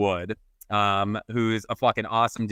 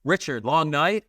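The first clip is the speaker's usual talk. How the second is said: higher, drawn-out question as Sue; knowing question; 5 semitones higher, slower than usual. Retold or imitated. Sue asks worn-out Richard about his night, knowing and drawn out. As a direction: slowly voice her pointed question. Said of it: "but she goes".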